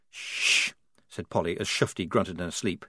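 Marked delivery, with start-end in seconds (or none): 0.1-0.7 hushing whisper. Acted. Hushing so Shufti keeps sleeping.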